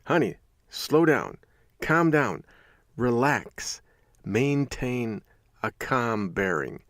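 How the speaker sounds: measured, pause-spaced calming phrases. Retold or imitated. Husband telling panicked wife to slow down, calm. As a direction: talk someone down with deliberate composure. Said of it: "remain calm, cool, and collected".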